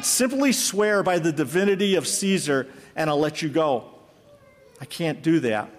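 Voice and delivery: lightly dramatic storytelling read to a congregation; dramatic story narration. A narrator's reading. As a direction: tell the martyr's story with measured weight. Preacher reads story aloud.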